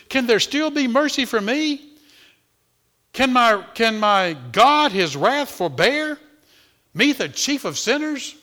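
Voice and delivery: a sinner begging God for mercy, pleading. Acted. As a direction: cry out for mercy. Pleading hymn words, voiced.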